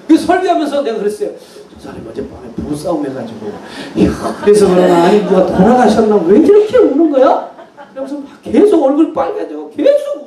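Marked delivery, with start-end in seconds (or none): 1.7-7.5 웃음 섞인 농담조, 끝으로 갈수록 높고 크게; 장난스럽게 웃으며 놀리듯; laughing tease. Retold or imitated. Pastor mocks the crying man. (설교 중 우는 성도를 두고 웃으며 농담하는 목사)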